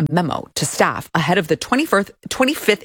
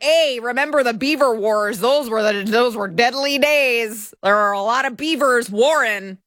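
lightly voiced Canadian, higher pitched; mock Canadian; 4 semitones higher than usual. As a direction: reminisce like a mock Canadian veteran. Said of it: "in Canada they'd be like".

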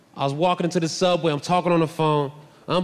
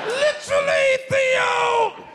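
Bill Cosby impression; much slower than usual. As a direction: squeal it like a sitcom dad. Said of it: "Sounds like Bill Cosby a little bit".

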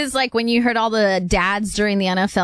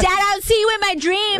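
voicing the daughter; 10 semitones higher than usual.

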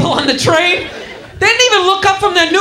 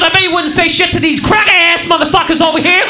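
mock-outraged challenge, hitting the insult hard; acted indignant taunt. Stuck passenger goading the conductor about other riders, indignant taunt. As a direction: imitate an angry passenger picking a fight. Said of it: "he gets into it with this guy".

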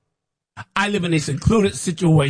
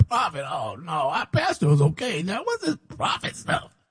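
retold fright; 5 dB quieter than usual. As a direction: softly replay his own dismay at being called. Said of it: "I was scared to death".

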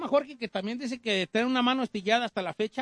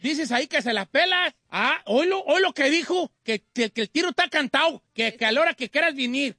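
raised, heated taunting voice; louder, higher, hammed-up provocation; mock fighting challenge; 4 semitones higher, 4 dB louder than usual. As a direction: relay the challenge, goading them on. Host relays a fight challenge.

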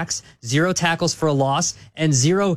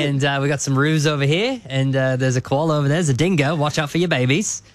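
mock Australian; 2 semitones lower than usual. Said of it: "was like".

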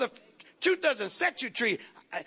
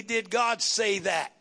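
1 emphatic challenge; 4 semitones lower, slower than usual. Shown as a demonstration. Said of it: "your constant question ought to be".

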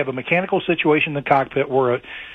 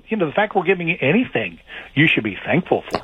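sarcastic. Acted. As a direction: voice the airline's line with understated sarcasm. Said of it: "Yeah, sarcasm intended".

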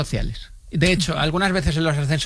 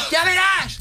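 shouted threat; 13 semitones higher, much slower than usual. Retold or imitated. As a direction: yell it after someone running off. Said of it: "Me gritó".

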